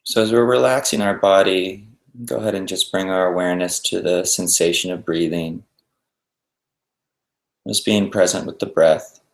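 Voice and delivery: unhurried meditation guidance with long pauses; guided meditation. Acted. Teacher guiding listeners to settle and breathe, guided meditation. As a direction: ease them into stillness, leaving space between instructions.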